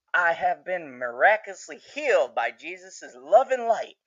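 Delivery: lightly voiced preacher; a hint of sermon, slightly lifted; Boyd. Escapee claiming Jesus healed him, lightly imitated preacher. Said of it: "back to his preacher roots".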